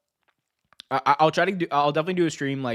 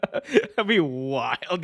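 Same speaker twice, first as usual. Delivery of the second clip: slow laughing repeat; 3 semitones higher, much slower than usual. Shown as a demonstration.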